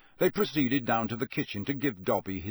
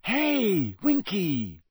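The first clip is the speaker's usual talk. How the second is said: higher, louder call across the room; 9 semitones higher, 4 dB louder, much slower than usual. Acted. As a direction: hail her suddenly, struck by an idea. Calling out to the elf.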